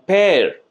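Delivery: পেয়ার stretched long as the stressed syllable; teacher demonstrating পেয়ার as a long, stressed beat; stressed, drawn out. Shown as a demonstration. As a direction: lean on পেয়ার and draw out its vowel. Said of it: "টেনে যেন বলতে হচ্ছে".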